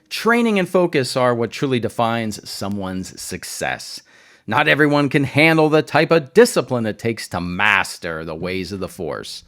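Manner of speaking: a hint of solemn Jedi wisdom, lightly acted; hammed-up Ahsoka. Vlogger acting out Ahsoka's Force lesson to Sabine, mock solemn. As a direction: play Ahsoka's line with mock gravitas, barely changed. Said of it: "She doesn't say it like that. That's me acting".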